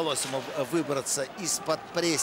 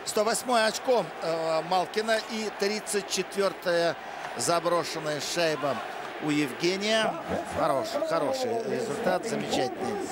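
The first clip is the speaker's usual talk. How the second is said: excited praise; 3 semitones higher than usual. Real, not acted. Praising Malkin's goal stats.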